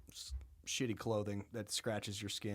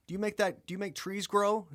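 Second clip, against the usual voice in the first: louder, much higher and fast; mock God; 10 semitones higher, 5 dB louder than usual. God grilling Job, loud and high. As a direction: fire the question down from above.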